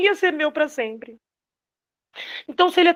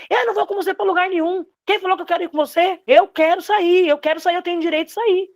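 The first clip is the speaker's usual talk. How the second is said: mildly raised pitch, imitating a frustrated son; angry son; 5 semitones higher than usual. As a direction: retell the son's protest with some heat. Son angrily arguing with mother.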